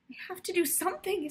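high, fast, urgent plea fighting tears; holding back tears. Acted. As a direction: rush the words so she won't cry. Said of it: "holding back tears".

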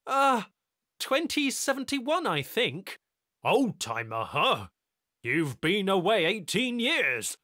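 loud, high brash greeting; brash technician. A narrator's reading. Technician welcoming Tyler home, brash and loud. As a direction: swagger into it.

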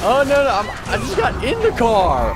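loud, exasperated cry; upset protest. Real, not acted. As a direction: protest that you only just got in. Just got into the car, protesting.

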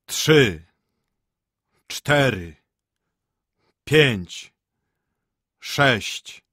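slow tolling count, each number falling; bell counting. A narrator's reading. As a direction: count like a great bell striking. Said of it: "gadał dzwon".

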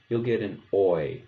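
put-on "oi" said as in English boy; teacher demonstrating the "oi" vowel; oi sound demo. Shown as a demonstration. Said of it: "like in English boy".

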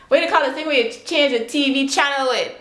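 rephrasing through a laugh in her home accent. Shown as a demonstration. Vlogger laughing at her own slip, home accent. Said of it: "so this is my accent".

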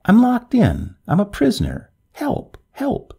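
high-pitched cry for help, narrator's restraint; panicked scream. A narrator's reading. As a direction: call out trapped, pitched well up. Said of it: "scream at the top of her voice".

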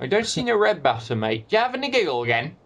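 lightly put-on street tough accent; hammed-up Glasgow hard man.

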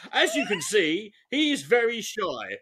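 slow sarcastic delivery of "very shy"; drawn-out mocking tone. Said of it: "in a sarcastic tone".

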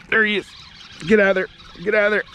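high, excited shouts at a hooked fish; fired up as the fish fights; excited fish-on call. Real, not acted. Angler yelling at a hooked fish, excited.

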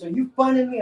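loud, very high-pitched mock outrage; retold angry challenge, voice shooting up; mad old man. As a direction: imitate an indignant old countryman. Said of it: "he was all mad".

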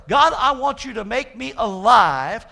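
loud, slow, earnest plea; crying out to God. Acted. Preacher praying as the psalmist to be made alive, crying out. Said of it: "He's crying out to the God".

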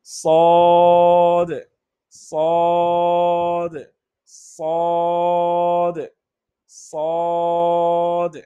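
সদ with a thick heavy s; Arabic letter saad. Shown as a demonstration. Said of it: "উচ্চারণটা একটু মোটা হবে".

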